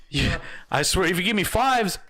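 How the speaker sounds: high, laughing overwrought rant; laughing exaggeration. Worker joking about the awful order, high and laughing.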